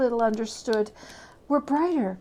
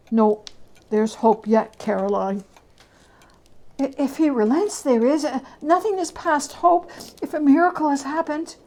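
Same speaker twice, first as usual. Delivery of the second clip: hopeful couple; 4 semitones higher, 4 dB louder than usual. Acted. Dialogue between husband and wife.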